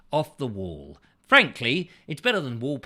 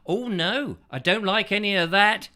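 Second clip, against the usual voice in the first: mock objection; 4 semitones higher, 4 dB louder than usual. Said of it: "do your best to say".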